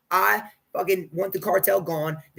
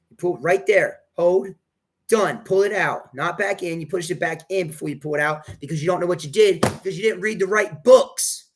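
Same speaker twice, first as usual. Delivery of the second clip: raised, insistent commands; real angry yelling; 2 semitones higher, 3 dB louder than usual. Real, not acted. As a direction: berate the person doing it wrong. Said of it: "I'm yelling at that guy".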